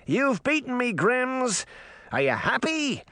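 high, whiny mock complaint; sulky fairy boy. A narrator's reading. Puck grumbling at the Grimms, high and whiny. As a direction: grumble theatrically. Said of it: "Puck complains to the Grimms".

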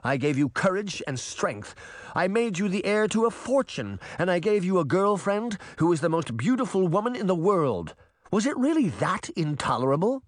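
very high, impassioned retort; exasperated, high-pitched tirade; exasperated wicked queen. A narrator's reading. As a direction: argue back in a high, incredulous voice. Bunny argues back, exasperated.

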